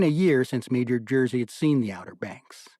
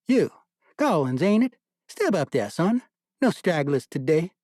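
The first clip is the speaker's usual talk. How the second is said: commanding major; 5 semitones higher, 4 dB louder than usual. A narrator's reading. Major calling to a soldier.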